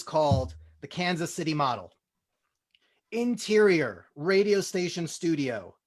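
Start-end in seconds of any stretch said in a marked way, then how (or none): 3.1-5.8 measured table-read narration; stage directions. Acted. Reading the scene heading to the audience, measured. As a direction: set the scene for the listeners.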